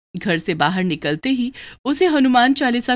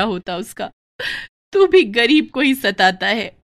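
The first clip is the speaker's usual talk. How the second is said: tearful prayer; 2 semitones higher, 3 dB louder than usual. Acted. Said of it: "बैठे हुए रो रही थी".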